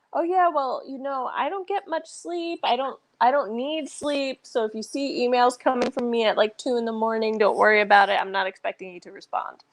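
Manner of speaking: lightly voiced breezy boss; a hint of a boss brushing it off; imitating breezy CEO. CEO quoted on not sleeping.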